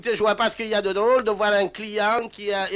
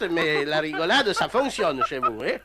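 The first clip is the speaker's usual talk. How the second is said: slow, lower, chuckling jab; laughing sarcasm; 6 semitones lower than usual. Real, not acted. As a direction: tease her through your own laughter. Mocking her laughter, laughing himself.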